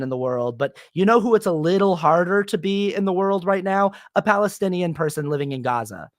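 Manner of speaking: imagined comic going on after them, lightly sarcastic; sarcastic comic bit. Pretend. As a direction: play it as a dry, pointed joke. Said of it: "I would be like".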